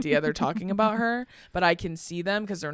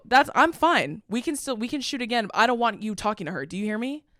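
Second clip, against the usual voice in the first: retold firm warning, higher at the start; pissed-off insistence; 4 semitones higher than usual. Performer agrees to reshoot but warns the man, pissed off. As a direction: claim to be fine, mildly heated. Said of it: "because I'm pissed off".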